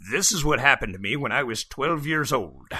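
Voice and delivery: put-on lightly croaky old man reading his own story; a hint of an elderly storyteller. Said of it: "I'm speaking in an old man voice".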